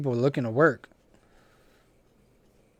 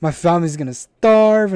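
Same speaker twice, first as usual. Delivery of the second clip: higher, louder mock-desperate plea; mock wail; 4 semitones higher, 6 dB louder than usual. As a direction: wail it like a dramatic customer. Acts out customer's plea.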